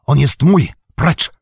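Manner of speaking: wyżej i głośniej, gniewny krzyk; okrzyk gniewu. A narrator's reading. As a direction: odepchnij go krzykiem. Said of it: "krzyknął". (Frodo krzyczy na Sama, by go nie dotykał, gniewnie)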